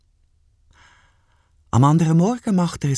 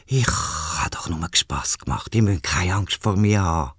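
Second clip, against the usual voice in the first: low, soft voice of a gentle giant bird; calm the scared boys from deep down; lower, softer condor reassuring the boys; big bird voice; 8 semitones lower, 4 dB quieter than usual. Acted.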